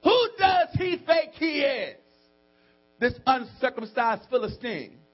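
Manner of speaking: high, loud, slow outrage; drawn-out high preaching shout; indignant shout. Acted. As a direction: cry it out as an affronted David. Preacher voices outraged David.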